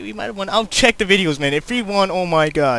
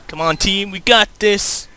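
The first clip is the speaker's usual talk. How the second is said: rallying shout; 8 dB louder than usual. Real, not acted. Cheering team on.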